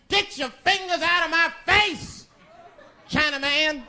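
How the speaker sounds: high indignant retort; mock indignant. Comedian telling off the shopkeeper, high and sassy. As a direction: act offended and sassy. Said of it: "I said".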